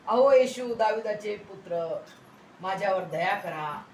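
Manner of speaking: loud opening call, then easing off; imitated crying out. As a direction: call out like a pleading beggar. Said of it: "अशा रीतीने तो ओरडत असताना". (आर्त हाकेची नक्कल)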